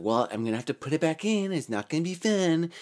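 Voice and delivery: breezy warning from a nurse; a hint of a matter-of-fact nurse. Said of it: "She's like".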